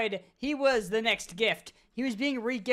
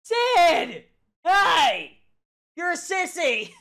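imitating a mom yelling down the hall; loud, high mock-mom shout; mom's yell; 7 semitones higher, 9 dB louder, much slower than usual. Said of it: "His mom just yells down the hall".

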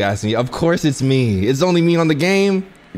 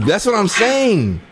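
high mock voice; 7 semitones higher, slower than usual. Repeats line in high voice.

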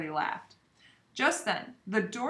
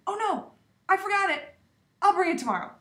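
put-on girl voice; 10 semitones higher, 5 dB louder, faster than usual. A narrator's reading. Forgetful Phoebe blushing, apologizing.

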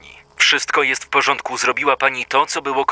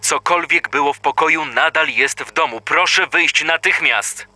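urgent plea; 3 semitones higher than usual. Acted. Dispatcher urging woman to leave.

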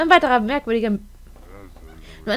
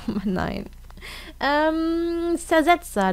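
ordinary talk, nothing marked

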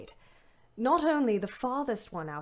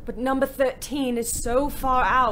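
protest; 5 semitones higher, 6 dB louder than usual. Acted. Driver protesting to commandant.

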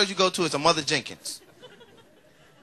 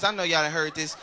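normal talking voice

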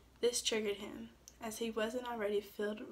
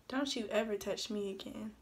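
mild shout. Acted. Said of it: "and shouted".

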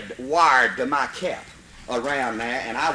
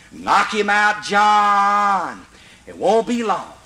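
urging shout; 3 semitones higher, 5 dB louder, much slower than usual. Retold or imitated. Urging climber in tree.

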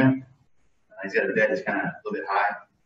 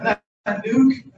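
higher, louder wail of dismay with a laugh; half-laughing imitation of upset kids; mock sad protest; 12 semitones higher, 8 dB louder, slower than usual. Kids crying out about their dog, mock sad wail. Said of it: "getting all sad about it".

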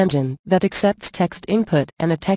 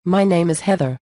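synthetic computer narrator voice; text-to-speech voice. Acted. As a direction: read it like a TTS engine. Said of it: "I'm a text-to-speech voice".

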